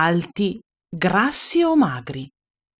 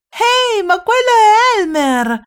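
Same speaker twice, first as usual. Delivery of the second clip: much higher, louder astonished shout; surprised cry; 13 semitones higher, 5 dB louder than usual. Acted. Elephants suddenly recognizing Elmer, loud surprised cry.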